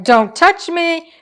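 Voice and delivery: mock-offended kitty; grumpy cat. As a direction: voice the cat pushing you away. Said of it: "and she's like".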